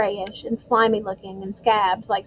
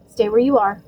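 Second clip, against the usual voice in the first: hoarse; 3 dB louder than usual. Acted. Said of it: "in the same hoarse voice".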